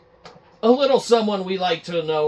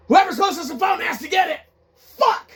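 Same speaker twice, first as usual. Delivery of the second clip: panicked rush; 13 semitones higher, 4 dB louder than usual. Acted. Staff panicking over the call.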